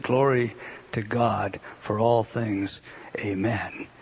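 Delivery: slow, fading down to a whisper; dying man's last words, sinking to a whisper; hushed dying words. Acted. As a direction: let the words die away into a whisper.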